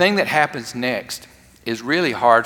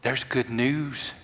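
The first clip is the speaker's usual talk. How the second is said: gentle voice of God. Acted. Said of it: "It said".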